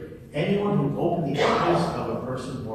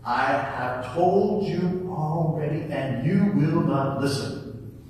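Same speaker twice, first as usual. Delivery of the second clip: frustrated; 4 dB louder, slower than usual. Acted. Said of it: "getting frustrated".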